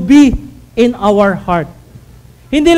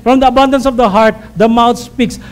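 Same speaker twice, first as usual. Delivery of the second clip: quicker recital. Shown as a demonstration. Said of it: "No, naman po natin".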